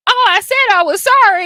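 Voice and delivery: put-on high, loud flippant kid; careless kid. Kid after punching classmate, flippant. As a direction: toss off the apology like a careless child.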